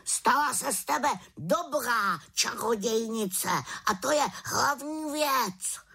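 high raven voice sinking to a slow whisper; raven's parting words. A narrator's reading. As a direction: encourage her, ending hushed. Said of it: "volal za ní".

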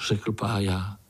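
usual speaking voice

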